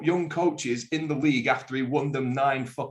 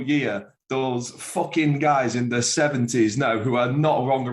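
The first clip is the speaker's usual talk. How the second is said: wrestling promo rant. Pretend. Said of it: "do this wrestling promo style".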